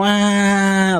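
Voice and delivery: long, drawn-out mock "waah"; imitated child's wail. Child crying for parents to take the toy, mock wail. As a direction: imitate a crying kid with one held wail. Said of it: "starts crying. They go".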